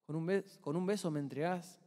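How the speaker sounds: softly spoken, composed reproach; gentle, hushed question to a betrayer; calm, godly restraint. Retold or imitated. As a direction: ask it quietly, without anger. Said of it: "un carácter de Dios".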